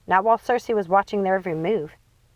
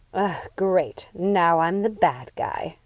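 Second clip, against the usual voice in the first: exasperated; much slower than usual. Acted.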